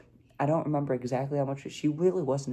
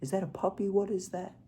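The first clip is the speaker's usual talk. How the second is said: higher, startled questions as grandpa; shocked grandpa; 7 semitones higher than usual. Retold or imitated. Grandpa surprised by the new puppy, higher startled asks. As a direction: play the grandpa seeing a puppy for the first time. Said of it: "He was just shocked".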